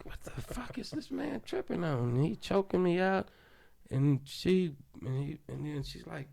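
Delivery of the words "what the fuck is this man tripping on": breathy disbelieving whisper, pitched up; whispered thought. Retold or imitated. Choked by guard, thinking it, whispered disbelief.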